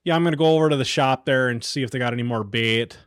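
light Iron Range accent demo. Shown as a demonstration. Showing how locals sound, in a light Iron Range accent. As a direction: lean lightly into northern Minnesota Iron Range. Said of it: "It's more of a".

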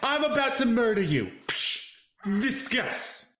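high New York Coffee Talk lady. Acted. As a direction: kvetch it like a Long Island yenta.

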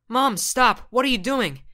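high, loud protest; panicked shout. Acted. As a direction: cry out in alarm. Son cries out at mom.

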